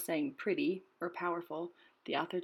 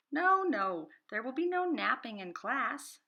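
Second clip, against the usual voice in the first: higher, louder stern declaration; declaring bird; 6 semitones higher, 4 dB louder than usual. A narrator's reading. Bird declaring class rules to Rocket, higher and louder. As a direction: lay down the class rule brightly. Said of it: "declared the bird".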